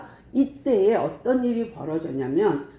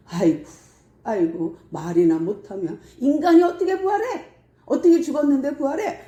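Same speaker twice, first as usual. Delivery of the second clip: acted scoffer, dismissive sighs rising to jeers; hammed-up derision; mocking; 5 semitones higher than usual. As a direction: scoff at it, building to an incredulous higher pitch. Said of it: "하면서 막 조롱하는 거예요".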